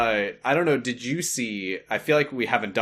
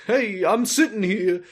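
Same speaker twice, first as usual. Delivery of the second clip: honking voice; 9 semitones higher, 3 dB louder than usual. Pretend. Goose voice callback.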